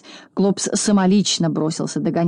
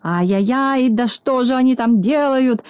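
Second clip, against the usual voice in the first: higher-pitched indignant exclamation; mildly angry cry; 6 semitones higher than usual. A narrator's reading. Klops sees his beds wrecked, mildly angry cry. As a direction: cry out in mild outrage. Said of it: "закричал Клопс, наливаясь от злости кровью".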